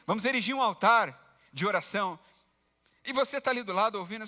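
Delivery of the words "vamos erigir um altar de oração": mildly raised voice, imitating church jargon on a call; hammed-up pious phone talk, a bit loud; loud phone talker. Preacher imitates a believer on his phone at the bus stop, mock loud. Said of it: "ele conversa alto ao celular".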